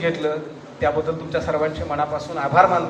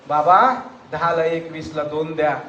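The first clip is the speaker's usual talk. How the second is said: tearful offer; 3 semitones lower than usual. Acted. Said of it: "डोळ्याच्या कडा पुसत".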